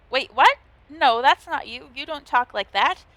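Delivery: loud startled disbelief; real startled outburst; surprised. Real, not acted. Game text surprises the player.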